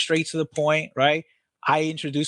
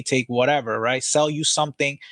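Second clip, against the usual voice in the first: usual speaking voice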